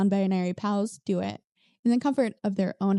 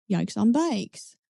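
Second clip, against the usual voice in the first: drawn-out yikes; much slower than usual. Acted. Drawn-out catchphrase reaction.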